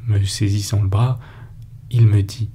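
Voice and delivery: ordinary delivery, nothing marked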